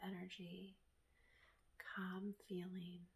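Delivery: soft, soothing meditation voice with long pauses; guided meditation. Acted. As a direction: guide them gently through each breath.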